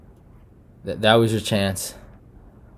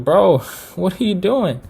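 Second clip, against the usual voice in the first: laughing disbelief; 7 semitones higher than usual. Retold or imitated. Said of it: "that's what I was looking at Marvin".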